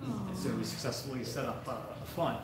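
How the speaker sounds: fighting back tears while speaking; choked up. Real, not acted. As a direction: voice tight with held-back tears. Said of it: "I'm choked up right now".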